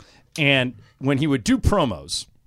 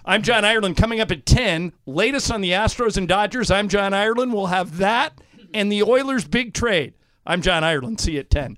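news anchor promo read; 3 semitones higher than usual. Shown as a demonstration. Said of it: "Okay, I'll do it again".

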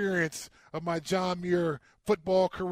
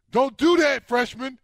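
retold yell; 3 semitones higher, 5 dB louder than usual. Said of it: "yells from across the field".

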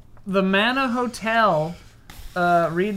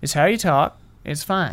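Kansas accent; 3 semitones lower than usual. Shown as a demonstration. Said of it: "doing a Kansas accent".

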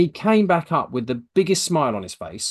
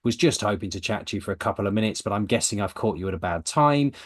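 lower-pitched, polite phone opener; softly, friendly, polite; 4 semitones lower than usual. Shown as a demonstration. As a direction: gently ask permission to talk. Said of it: "nice, polite, softly, softly, friendly way".

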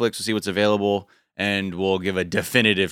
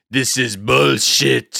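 put-on drawn-out French accent; slow, put-on French award winner; mock French accent; much slower than usual. Imagining a guest grabbing an award onstage, mock French accent. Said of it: "gave you, like, a French accent".

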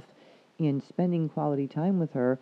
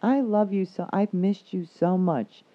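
higher, louder sing-song gush; mock gushing greeting; 6 semitones higher, 3 dB louder than usual. Partner greets traveler who lugs bags alone, sugary gush. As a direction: gush sweetly while doing nothing.

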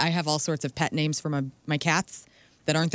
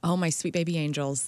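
mock baby talk to cats. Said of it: "hashtag cringe".

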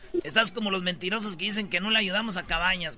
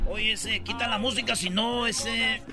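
softly menacing barrio cholo; cholo homie; 2 semitones higher, 3 dB quieter than usual. Acted. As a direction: Chicano Spanglish threat. Homies threaten over the music.

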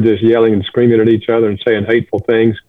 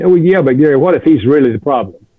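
lightly voiced woman objecting, a bit higher; a hint of a protesting lady, mildly raised; 3 semitones higher than usual. Lady at a talk pushes back on Gary, lightly voiced higher objection. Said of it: "and she said".

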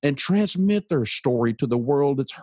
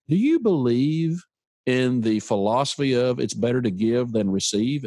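calm. Retold or imitated. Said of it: "so I just calmly said".

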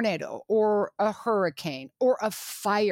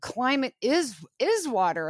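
exasperated; 5 semitones higher than usual. Retold or imitated. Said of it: "I'll try not to be frustrated because I'm like".

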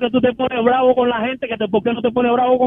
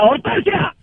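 calling out; 5 semitones higher, much slower than usual. Acted. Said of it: "llega a la sala y grita".

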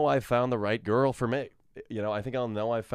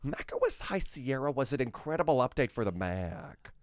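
light Tim Cook impression. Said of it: "Tim, as in Tim Cook".

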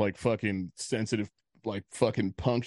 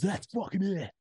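mock angry outburst; 8 semitones higher than usual. Retold man jumps up mad.

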